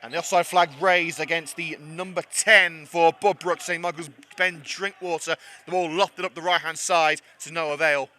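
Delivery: commentating slightly out of breath; a little breathless after a match. Real, not acted. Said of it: "I'm out of breath a little bit".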